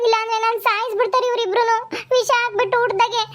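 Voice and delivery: mildly whining, aggrieved plea; tearful complaint. Acted. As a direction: play the wronged mother begging her son. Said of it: "ನೀನ್ ಅಳ್ಬೇಡ, ಸುಮ್ನಿರು".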